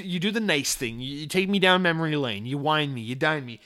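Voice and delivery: usual speaking voice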